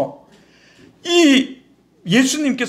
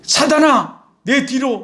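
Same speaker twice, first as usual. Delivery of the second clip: raised, commanding call; stern rebuke; 3 semitones higher, slower than usual. Acted. Jesus turns round to rebuke the disciple, sternly. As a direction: order the adversary back. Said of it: "호통을 치세요".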